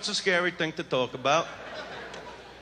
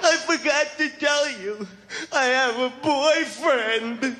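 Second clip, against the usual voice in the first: higher, slow falsely sweet confession; mock woman confession; 6 semitones higher, slower than usual. Mock woman admitting a boyfriend. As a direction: drag it out like an afterthought. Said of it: "You gotta listen".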